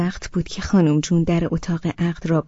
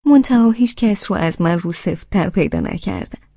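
sweet tone. Acted. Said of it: "با همان لحن شیرینش گفت".

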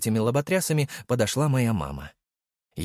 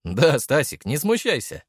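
smirking echo; 5 semitones higher, 4 dB louder than usual. Acted. Hero teases stepfather by echoing his wife, in a smirking voice. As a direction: echo her words with a grin. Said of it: "усмехнулся я".

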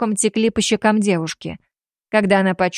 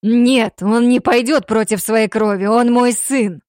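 louder, pleading denial; cling to hope against it; desperate hope; 3 semitones higher, 4 dB louder, slower than usual. Acted. Father insisting his son is still his, desperate and loud. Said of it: "В голосе Дамира звучала отчаянная надежда".

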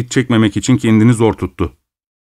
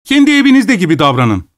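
frantic; 7 semitones higher than usual. Acted. Host's frantic climax.

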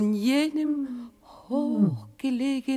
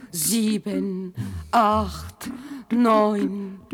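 loud counted calls; 2 semitones lower, 5 dB louder, much slower than usual. Acted. Corporals calling out the lash count, loud. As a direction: bark out each lash count.

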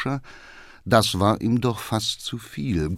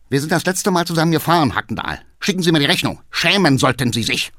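indignant dismissal; 5 semitones higher, faster than usual. Acted. Councillor dismissing the cabman.

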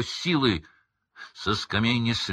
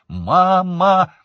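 very high, loud cry; 12 semitones higher, 10 dB louder than usual. A narrator's reading. Son crying out to his mother, loud and high. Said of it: "воскликнул юноша".

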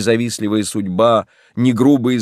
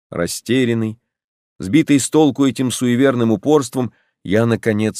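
ordinary delivery

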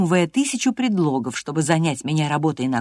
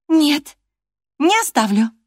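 high, loud refusal; stubborn refusal; 11 semitones higher, 6 dB louder, slower than usual. Acted. Catherine stubbornly refuses to leave Hareton alone. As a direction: dig in and refuse. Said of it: "не сдавалась Кэтрин".

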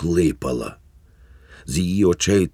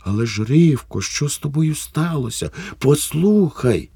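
pleading; 10 semitones higher than usual. Acted. Husband pleading with wife.

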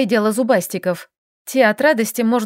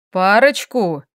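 louder, indignant echo; displeased exclamation; 3 dB louder, slower than usual. Acted. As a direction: throw her word back at her, displeased. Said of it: "Недовольный возглас". (недовольно, громче)

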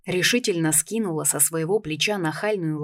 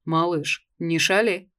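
menacing bass; slower than usual. Acted. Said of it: "грозно пробасила новенькая".

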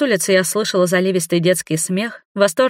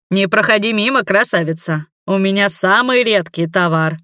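sailor hawking wares. Acted. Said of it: "окликнул меня усатый моряк".

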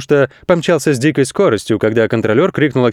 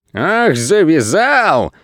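slow, drawn-out higher jeer; mock-outraged cry; 5 semitones higher, much slower than usual. Crooks jeering at the goat, drawn-out mocking cry. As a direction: sneer it back at him. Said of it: "закричали жулики".

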